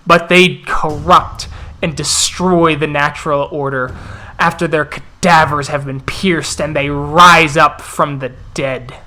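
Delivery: grave, forceful condemnation; lightly voiced elder addressing the pack; wolf elder orating. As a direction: build the case against the enemy, punching key words. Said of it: "listening intently to the Elder".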